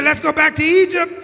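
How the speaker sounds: "We want to go back to Egypt" called out high and loud; preached loud demand. Retold or imitated. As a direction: shout the people's wish to turn back.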